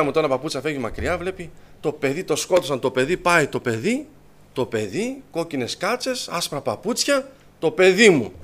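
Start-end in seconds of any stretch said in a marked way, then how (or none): 1.8-8.3 retold mother's dawning panic. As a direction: act a mother realising it's her child. Mother recognising her injured child. (αναπαράσταση μητρικού πανικού που κορυφώνεται)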